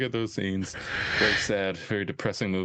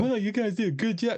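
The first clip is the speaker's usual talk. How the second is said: high, sing-song mock praise; mocking client praise; 13 semitones higher than usual. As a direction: parrot the compliment in a high silly voice. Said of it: "I don't wanna hear any like".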